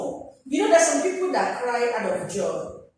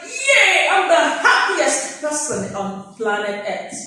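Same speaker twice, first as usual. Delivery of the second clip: jumping for joy; 4 dB louder than usual. Pretend. Student shouting with joy over perfect exam results. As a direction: shout it out as top of the class. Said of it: "You would jump like".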